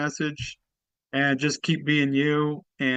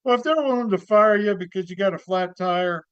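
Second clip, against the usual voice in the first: comedy character act. Acted. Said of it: "give us a little bit of your act, of your character".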